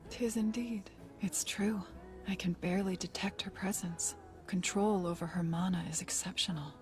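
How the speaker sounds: whispering. Acted. Mage speaking softly.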